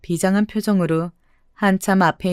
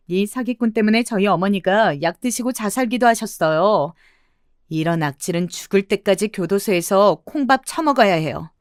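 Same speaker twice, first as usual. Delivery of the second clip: indignant denunciation, only mildly raised; mild acted yelling. Elder daughter-in-law denouncing swindler to bystanders, mildly yelling. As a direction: accuse him with contained outrage. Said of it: "고래고래 소리를 질렀습니다".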